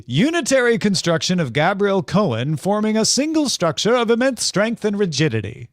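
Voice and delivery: put-on twenties radio guy with mid-Atlantic accent; vintage mid-Atlantic car ad read. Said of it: "somewhere from Oxford accent to Mid-Atlantic".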